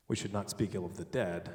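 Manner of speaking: dead weighted at the end; low-key line with the accent on dead; stress on dead. Shown as a demonstration. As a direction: hold back, then land on the word dead. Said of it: "emphasize a different word each time".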